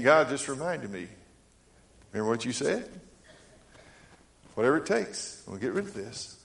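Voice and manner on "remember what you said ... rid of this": softer, quieter voice of God; soft, patient voice of God; gentle reminder. Retold or imitated. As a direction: remind him gently of his promise. God's voice reminding him.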